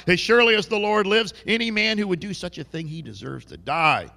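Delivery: loud furious outburst. Retold or imitated. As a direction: roar it out in outrage. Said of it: "it says he's furious".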